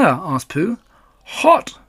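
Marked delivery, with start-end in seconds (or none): 1.2-1.8 high, squeaked word through a sore mouth; pained mumble. A narrator's reading. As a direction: yelp it high with a prickled mouth. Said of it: "mumbled Tigger".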